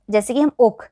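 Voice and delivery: short quick ओक, not stretched; said quickly. Shown as a demonstration. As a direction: clip the vowel in ओक. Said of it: "जल्दी से बोल रहे हैं". (ओक को जल्दी और छोटा बोलें)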